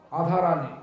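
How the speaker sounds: আধারানী with the র dropped, laughing; amused imitation of Rangpur speech. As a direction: say রাধারানী as আধারানী. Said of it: "আর আকে আ বলে".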